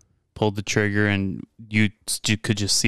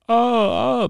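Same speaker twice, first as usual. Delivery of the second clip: high, louder mock "oh, oh"; mock cries of pain; 4 dB louder than usual. Host parodies bloody war-film moments, high mock cries. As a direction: cry out in a high mock wail.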